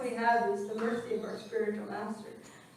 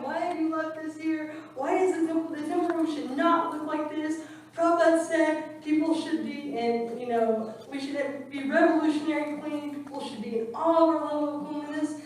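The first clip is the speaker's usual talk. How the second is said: high, loud, scolding lecture; chastising; 5 semitones higher, 5 dB louder than usual. Retold or imitated. General manager chastising the brahmachari, loud scolding. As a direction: tell him off for the messy temple room. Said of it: "she starts actually chastising him".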